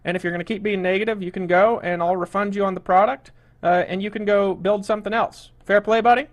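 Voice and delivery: annoyed scolding. Real, not acted. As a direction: push him to leave, firmly. Host scolding complaining webinar attendee.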